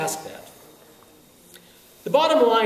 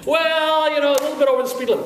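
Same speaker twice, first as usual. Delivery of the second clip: mock evasive friend, pitched up; friend admitting; 9 semitones higher, 5 dB louder than usual. Friend dodging a question about speed, high-pitched hedging. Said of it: "a friend of yours saying".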